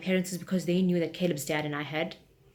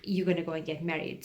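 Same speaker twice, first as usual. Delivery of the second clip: louder, scolding a grown daughter; mock stern mother; 2 semitones higher, 4 dB louder than usual. Mother ordering her daughter to get married, mock stern. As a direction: lightly play the fed-up parent. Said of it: "I was like".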